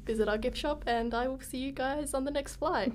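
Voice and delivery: airline captain announcement; captain on the cabin PA; pilot cockpit headset. Acted. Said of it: "I am your pilot for tonight".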